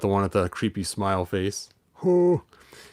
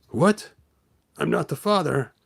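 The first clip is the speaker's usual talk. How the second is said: lightly voiced figure. Figure voiced complaining about fatherhood.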